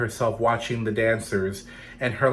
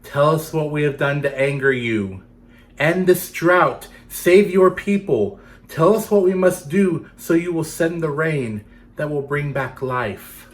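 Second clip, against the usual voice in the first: pleading dancers; 4 semitones higher, 5 dB louder than usual. Acted. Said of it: "the long line of dancers sang".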